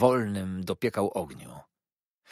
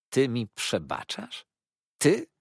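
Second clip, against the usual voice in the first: rising to a much higher, louder scoff; incredulous outrage; 5 semitones higher, 5 dB louder, slower than usual. A narrator's reading. Copperfield scoffs at Uriah's forgiveness, much louder and higher. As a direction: spit back the disbelief.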